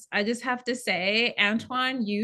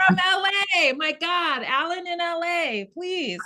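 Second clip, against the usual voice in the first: higher and louder, delighted to see him; excited greeting; 8 semitones higher, 3 dB louder than usual. Real, not acted. Host welcoming Alan back from LA, excited and delighted. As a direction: cry out in happy disbelief.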